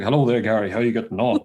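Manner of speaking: put-on low, chesty greeting; imitating a deep talker. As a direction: drop the pitch for a deep-voiced acquaintance. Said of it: "talking to me with a deep voice".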